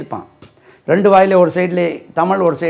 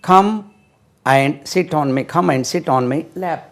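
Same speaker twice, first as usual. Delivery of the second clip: each word spaced out, very slowly; slow classroom dictation; much slower than usual. Shown as a demonstration. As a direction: dictate it word by word for little ones. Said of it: "slow model sentence".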